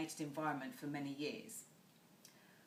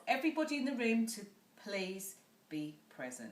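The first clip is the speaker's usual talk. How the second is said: voice going down; 4 semitones higher, 4 dB louder than usual. Shown as a demonstration. Trainer asks the room for attention with a downward tune. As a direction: state it firmly with the pitch dropping at the end. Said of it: "Do you notice how my voice went down?".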